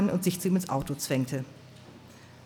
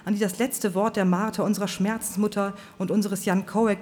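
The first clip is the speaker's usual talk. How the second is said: fiery preacher; 4 semitones higher than usual. Acted. Preacher Swan's fiery speech.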